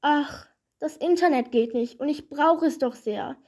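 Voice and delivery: lightly voiced tearful complaint; sobbing. Coronita tells the stranger her woes, mildly sobbing. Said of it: "schluchzte Coronita".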